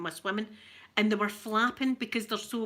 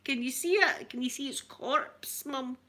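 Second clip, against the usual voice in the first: urgent excited calling; 8 semitones higher than usual. Retold or imitated. Showing mum the seagull on camera, high excited urging. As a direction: make her look, quick, half laughing. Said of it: "I'm going".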